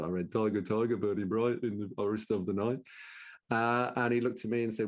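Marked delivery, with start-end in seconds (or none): 0.3-2.8 put-on reciting verse in a Brummie accent; schoolboy reading a poem in Brummie. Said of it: "in my best Brummie accent".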